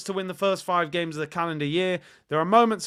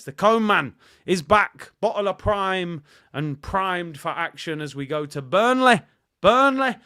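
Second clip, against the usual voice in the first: hype; 2 semitones higher, 6 dB louder than usual. Acted. Segment hype.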